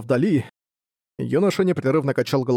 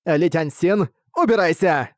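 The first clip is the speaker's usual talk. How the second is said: put-on old woman voice; 4 semitones higher, slower than usual. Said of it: "голос бабушки снова стал женским".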